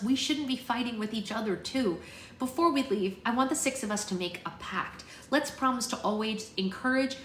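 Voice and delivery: rally your classmates into a pact; storybook heroine making a heartfelt speech; Bristol, rallying the group. Acted.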